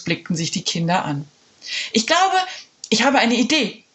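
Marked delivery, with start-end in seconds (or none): 1.9-3.8 put-on high, eager girl's voice; excited girl. Jule telling friends her idea, high and eager. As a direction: burst out with the idea. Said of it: "rief Jule".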